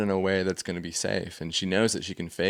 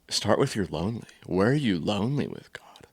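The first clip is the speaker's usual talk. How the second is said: breathy whispered question. Real, not acted. Pastor asking the congregation, whispered. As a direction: lean in and whisper it.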